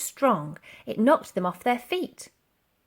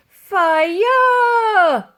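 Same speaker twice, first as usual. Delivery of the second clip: high, loud battle command; old soldier ordering fire; shout; 12 semitones higher, 12 dB louder than usual. A narrator's reading. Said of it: "shouted Titch".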